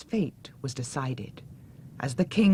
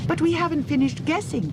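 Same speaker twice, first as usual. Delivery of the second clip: very high urgent cry; desperate shout; 13 semitones higher than usual. Acted. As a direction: cry out in protest. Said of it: "shouted Dorothy".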